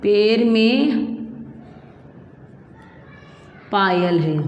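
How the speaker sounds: slow, drawn-out phrase; slow dictation. Shown as a demonstration. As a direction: dictate each word slowly. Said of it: "तीसरा sentence होगा". (धीरे-धीरे वाक्य लिखवाना)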